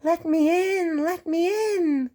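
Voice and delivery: high, slow wailing ghost; spooky voice. Acted. Percy pretending to be a ghost at the shed, wailing. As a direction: moan it out like a ghost at the door. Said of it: "said Percy in a spooky voice".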